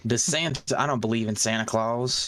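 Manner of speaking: put-on Southern US accent. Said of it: "heard you do a Southern accent".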